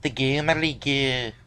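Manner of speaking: low creature name in a put-on Scottish accent; Scottish or Irish accent. Host demonstrating the creature that scared Parker, mock Scottish accent. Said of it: "why don't you, in your Irish accent".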